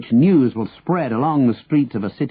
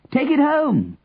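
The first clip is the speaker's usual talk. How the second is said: high, carrying call; shouting; 13 semitones higher, slower than usual. A narrator's reading. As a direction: call it out high across a street. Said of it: "Henry shouted".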